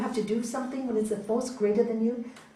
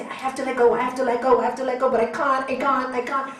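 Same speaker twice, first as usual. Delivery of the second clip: louder, strained repeat of the frustrated plea; mock frustrated child; 6 dB louder, faster than usual. Imitating a frustrated child who cannot let go, louder. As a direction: play the stuck child who keeps failing. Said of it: "don't say".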